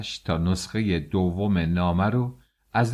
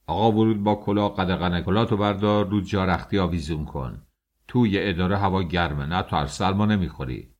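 mild angry shout. Acted. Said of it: "خیلی عصبانی شد و داد کشید".

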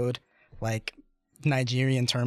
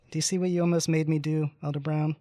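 higher-pitched mock scolding of a victim; retold abuser; 4 semitones higher than usual. Abusive companion blames him after the attack, retold scolding. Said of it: "Total abuser".

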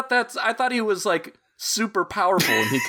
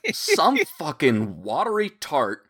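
laughing mock outrage. Mock lady of the lake story.

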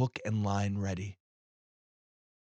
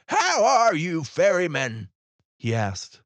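loud, much higher glad call; a bright hail from the boat; hearty greeting; 8 semitones higher, 5 dB louder than usual. Acted. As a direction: greet an old friend across the water. Old man greets ferryman.

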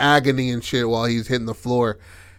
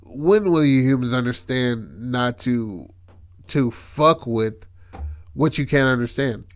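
intercom AI. Retold or imitated. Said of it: "goes into the, the intercom".

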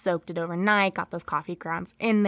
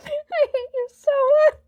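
high, laughing through the words; cracking up while scolding a friend; 7 dB louder, slower than usual. Real, not acted. Laughing at Santa joke.

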